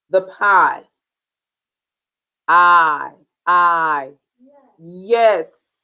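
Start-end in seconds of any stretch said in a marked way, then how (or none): 2.5-4.1 "I" drawn out like the word eye; long I sound. Shown as a demonstration. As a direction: model each "I" slowly as a long vowel. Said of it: "It has the long I sound".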